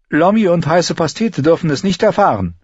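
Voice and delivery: put-on a wary girl confiding a secret; Arya's voice.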